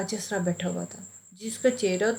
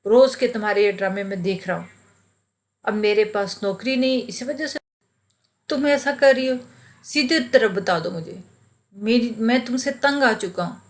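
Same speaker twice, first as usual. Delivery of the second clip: fast, louder retold rage at his wife; angry outburst; 4 dB louder than usual. Jobless husband lashing out at wife over her moods, fast angry outburst. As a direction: spit it out fast, fed up. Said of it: "मैंने इंतहाई गुस्से में कहा।".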